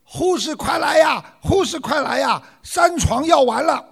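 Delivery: high-pitched urgent call down a corridor; grido di richiamo. Acted. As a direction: call out for the nurse, acted shout. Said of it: "冲着门口高喊道".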